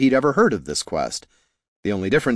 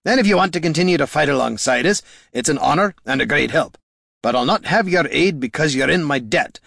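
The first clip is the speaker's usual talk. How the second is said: higher-pitched, emphatic hero dialogue; firm, earnest character voice, pitched up; earnest Gorm; 4 semitones higher than usual. Acted. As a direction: lay down terms to a troll ally, insistent.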